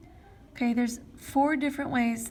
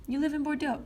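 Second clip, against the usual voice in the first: "You live in Bordeaux" as a plain statement, pitch falling; falling statement tune; 5 semitones higher, faster than usual. Shown as a demonstration. French teacher reads out an example sentence, as a falling statement. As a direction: let the pitch drop at the end of "Bordeaux". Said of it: "It's a statement".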